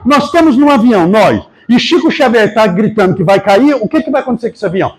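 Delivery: piloto gritando agudo, entre risos; grito do piloto. Retold or imitated. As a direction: berrar em pânico rindo. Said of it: "até o piloto gritou". (piloto grita aos passageiros, agudo e rindo)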